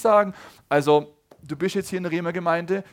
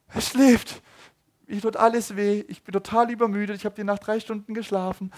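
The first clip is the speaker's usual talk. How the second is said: louder, higher, worn-out complaining; exhausted parent's thoughts; 5 semitones higher, 5 dB louder than usual. Retold or imitated. Tired parent thinks aloud with a sleeping baby, louder. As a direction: vent like a parent stuck holding a sleeping baby. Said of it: "Und du denkst".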